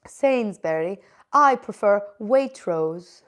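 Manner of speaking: slow, drawn-out British attempt; deliberately put-on British accent; mock British accent. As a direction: play at being a British shopper. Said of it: "Everyone always roasts my British accent".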